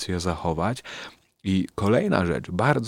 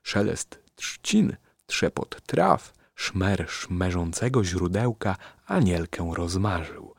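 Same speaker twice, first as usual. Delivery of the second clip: slow tongue twister; slower than usual. Shown as a demonstration. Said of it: "dobre na rozgrzewkę".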